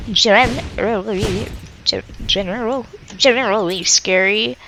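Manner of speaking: stumbling retries of one word; tripping over "generally"; tongue-tied. Real, not acted. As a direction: wrestle with the word till it comes out. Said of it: "oh, I can't speak".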